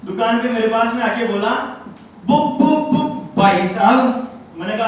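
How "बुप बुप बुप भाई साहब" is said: put-on stuttering neighbour boy. Mimicking the stammering boy at the shop, stuttering loudly. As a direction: stutter the first word over and over. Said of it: "तुतला के बोलता है".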